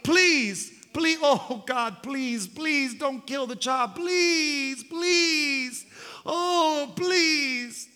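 high, broken pleading, near tears; a mother's tearful begging; crying plea. Acted. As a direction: sob out the pleas. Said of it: "she begged and pleaded".

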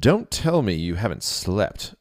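slow, stern royal demand; a lightly voiced regal king. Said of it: "a regal voice demanded".

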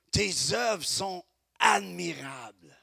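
slow, full-voiced "Tes œuvres sont admirables"; proclaimed. Shown as a demonstration. Proclaimed take of repeated verse.

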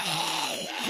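breathy imitation of a crawling zombie; zombie groan. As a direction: groan like the undead dragging along. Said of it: "crawl outside like a zombie".

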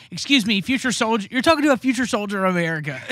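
TikTok kid impression. Teasing the speaker by imitating an earnest kid. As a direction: act like a proud little cadet. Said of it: "that kid on TikTok who's like".

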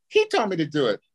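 a hint of a high-pitched sidekick. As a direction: mimic a small man's high whine. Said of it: "he had this high-pitched voice".

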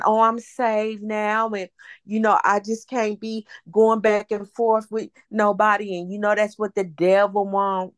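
lightly voiced churchy impression; mocking imitation. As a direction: drag it out like a self-righteous convert. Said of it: "That ain't exactly what she said".

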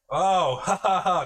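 loud, high laugh of scornful officials; big put-on "oh, ha ha ha"; imitated mocking laugh. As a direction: act out guards laughing at a loser. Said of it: "They said it's, like, Chinese, obviously".

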